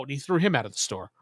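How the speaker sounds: ordinary delivery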